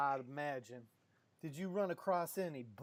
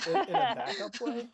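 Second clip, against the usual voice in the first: surprised; 9 semitones higher, 8 dB louder than usual. Real, not acted. GM surprised at player.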